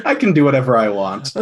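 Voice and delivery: fast, laughing arrogant boast. Acted. Fang flaunts his pedigree at the noble, laughing. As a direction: brag with a laugh. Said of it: "and I'm like".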